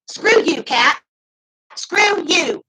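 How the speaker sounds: angry. Real, not acted. Telling off Kat, who criticised her, angrily. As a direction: spit the words at her. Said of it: "I'm really mad".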